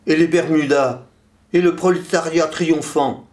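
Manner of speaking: high-pitched declaimed protest, little added volume; vituperating. A narrator's reading. Poem's third voice joins the uproar, vituperating. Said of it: "vitupérait le troisième".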